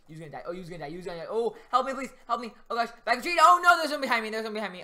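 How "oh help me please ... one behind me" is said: high louder cries for help; fluttering cries for help. Real, not acted. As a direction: call out for help in panic.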